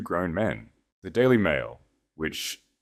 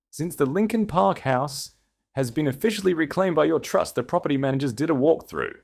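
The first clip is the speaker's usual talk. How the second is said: a lightly voiced Connor, higher, matter-of-fact briefing; professional cadence; 6 semitones higher than usual. A narrator's reading. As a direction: report the legal news like a calm attorney. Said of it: "his voice dropping into a professional cadence".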